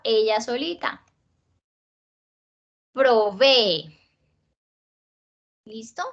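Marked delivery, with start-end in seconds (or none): 2.9-4.0 "Provee" slowly split syllable by syllable. Shown as a demonstration. Teacher showing how two strong vowels split, syllable by syllable. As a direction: stretch "Provee" apart, separating its syllables. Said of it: "se abren en dos sílabas".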